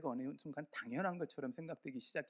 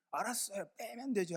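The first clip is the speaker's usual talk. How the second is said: higher, testy mock retort from the neighbor; mock angry retort; 7 semitones higher than usual. Neighbor snapping back at the pastor, mock angry. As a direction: imitate his huffy comeback. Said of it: "막 욕을 하더니".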